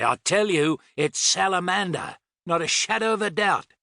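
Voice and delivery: high, emphatic Australian insistence; insistent shout. A narrator's reading. Tony thumping the chart table, shouting into radio. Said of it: "he shouted into his radio".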